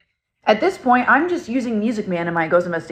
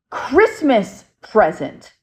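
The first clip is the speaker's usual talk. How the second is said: spirit voice; 2 semitones higher, 3 dB louder, much slower than usual. Retold or imitated. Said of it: "And he goes".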